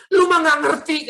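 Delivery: loud, high-pitched mock indignation; retold indignant retort. Imitating mother grabbing her son, indignant. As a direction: snap back like an offended mother.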